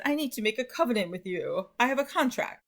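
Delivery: put-on half-hearted British accent; badly faked British accent, played for fun. Teacher voicing a Brit making a covenant, poor British accent. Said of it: "that was not really a British accent".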